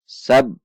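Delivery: "Sab" closed on a held b; held consonant. Shown as a demonstration. Teacher demonstrating tasydid on ba, "Sab" stopped on a held b. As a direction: press the b of "Sab" and halt on it briefly. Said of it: "seperti tertahan atau seperti berhenti sejenak".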